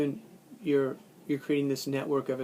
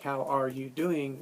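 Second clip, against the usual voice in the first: slower, each word separate; full careful form; slower than usual. Shown as a demonstration. Teacher contrasting the full form, slow and separate. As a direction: spell out every word of "How are you doing?". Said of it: "As opposed to, like".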